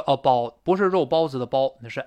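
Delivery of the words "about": "about" with a flattened "bao", like 包; wrong weakened vowel. Shown as a demonstration. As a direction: shrink the diphthong of "about" to Chinese bao. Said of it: "不能读成about".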